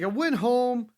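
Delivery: imitating Drew McIntyre's self-pep talk; mock Drew McIntyre. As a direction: play him boasting to the mirror. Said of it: "he's like".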